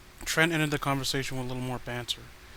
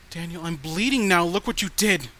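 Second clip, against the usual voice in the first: unhinged accusation; 3 semitones higher, 6 dB louder than usual. Acted. Unhinged message, self harm.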